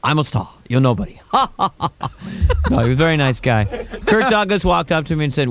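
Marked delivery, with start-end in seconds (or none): 0.0-1.2 Burt Lancaster impression. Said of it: "He goes".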